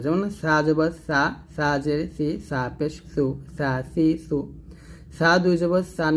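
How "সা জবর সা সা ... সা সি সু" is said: "সা" softly from the tongue tip; tongue tip at the upper teeth for "সা". Shown as a demonstration. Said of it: "জিহ্বার আগে হয়তো নরমভাবে আদায় করতে হবে".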